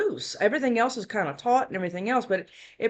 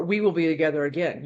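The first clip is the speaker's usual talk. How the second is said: lower, ominous second reading; other, unsweet meaning; 3 semitones lower than usual. Shown as a demonstration. Reader showing the card's second meaning, unsweet. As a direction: drop it lower, the sweetness gone. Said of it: "it can have two meanings".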